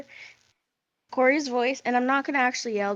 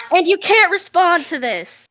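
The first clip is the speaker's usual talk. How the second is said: loud, higher shouted howler with a laugh; howler yell; 7 semitones higher, 7 dB louder than usual. Acted. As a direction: yell it like a screaming letter through a laugh. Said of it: "it's back to yelling".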